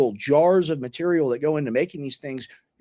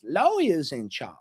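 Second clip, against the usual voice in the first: Southern lawyer accent; slower than usual. Shown as a demonstration. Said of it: "the lawyer sounds like this".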